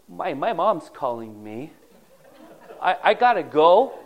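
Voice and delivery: hammed-up panicked excuse to flee; comic excuse. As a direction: Judah caught out, laughing as he bolts. Judah caught, comic escape.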